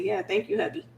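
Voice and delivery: put-on high, soft girlish thanks; high soft mock sweetness; sweet thank you. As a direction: coo it up high to the husband. Dreamer thanking spirit husband.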